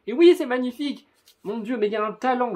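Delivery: exclamation aiguë et forte, émerveillée; s'extasier à pleine voix, haut perché; enthousiasme débordant. Real, not acted. S'enflamme pour les dessins du manga. (enthousiasme débordant, en français)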